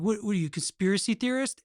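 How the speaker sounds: mock-incredulous question, rising at the end; cynical, belittling. Critic challenging a conspiracy theorist, cynical and belittling. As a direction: imitate someone belittling a believer. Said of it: "it's the same kind of thing".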